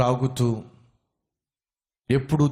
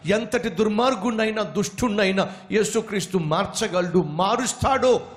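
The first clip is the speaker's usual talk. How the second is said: street evangelist; 5 semitones higher than usual. Acted. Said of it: "ఒక వ్యక్తి కరపత్రాలు పట్టుకొని".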